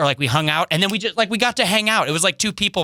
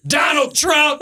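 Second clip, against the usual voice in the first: exasperated shout; 12 semitones higher, much slower than usual. Retold or imitated. A frustrated fan shouting the name at the comic. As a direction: yell it, fed up.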